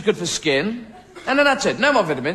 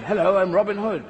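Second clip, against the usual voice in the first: put-on English accent. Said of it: "an English-speaking Robin Hood".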